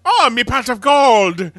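high, loud Irish leprechaun voice. Acted. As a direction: ham it up as a greedy Irish leprechaun. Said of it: "He turned into a literal Lucky Charms leprechaun".

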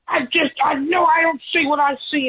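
high-pitched imitation of a fuming man; mock angry teacher. Teacher storming over to the little girl, high mock rant. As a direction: play the teacher losing his temper, voice pushed way up. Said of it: "and he got so mad".

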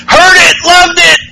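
high, slow yelled call from afar; distant scream. Retold or imitated. Amber yelling from the distance, high hammed-up call. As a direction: call it out from across the room.

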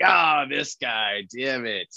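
drawn-out groan of defeat, falling away; mock dismay. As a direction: grumble slowly at a rival turning up. Retold dismay at seeing rival.

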